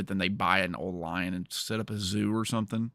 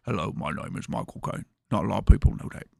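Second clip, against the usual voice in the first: Michael Caine impression. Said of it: "get good at a Michael Caine impression".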